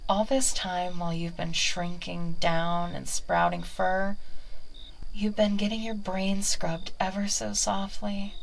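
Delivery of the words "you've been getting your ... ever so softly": whispered, close and persuasive; coaxing whisper. Acted. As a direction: lull the familiar with a whisper. Whispered hypnotic line.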